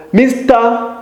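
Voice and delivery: "Mister" lifted up in pitch; rising on Mister. Shown as a demonstration. Teacher showing the rise on "Mister". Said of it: "Notice the rising intonation on".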